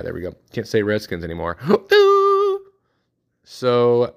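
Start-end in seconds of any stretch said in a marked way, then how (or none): 1.6-2.6 sharp, high, staged gasp of shock; mock gasp. Sportscaster fakes a shocked gasp after saying Redskins. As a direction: gasp as if he said a forbidden word.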